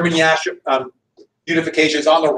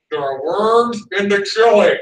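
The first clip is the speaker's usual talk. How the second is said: store announcement; 3 semitones higher, 4 dB louder, slower than usual. Retold or imitated. Clerk on store speakers.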